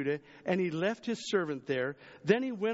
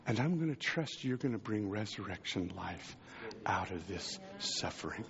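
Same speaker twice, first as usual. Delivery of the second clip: soft prayer sinking lower and quieter; trusting prayer; 4 semitones lower, 4 dB quieter than usual. Retold or imitated. Believer praying to God in suffering, softer and lower. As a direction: pray it inward, fading to a hush. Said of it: "or go".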